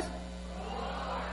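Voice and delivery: breathy unvoiced roar sound; a hushed lion roar for the congregation; whispered roar. Shown as a demonstration. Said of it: "Can you, can you say with me".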